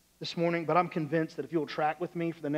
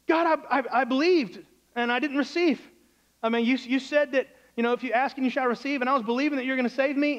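high, raised voice of protest; protesting complaint; 6 semitones higher than usual. Acted. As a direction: plead your grievance, quickening as it goes on. Drowned man complains to God.

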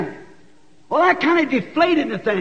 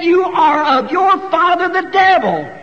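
preaching shout; 4 semitones higher, 4 dB louder than usual. Acted. Preacher shouts Jesus' rebuke.

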